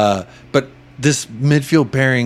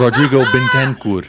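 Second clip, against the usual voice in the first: laughing through a hammed-up Indian accent; Bobby K Indian accent; 3 semitones higher, 3 dB louder than usual. Podcast host repeats the player's name for cohosts, mock Indian accent. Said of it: "like Bobby Kay doing an Indian accent".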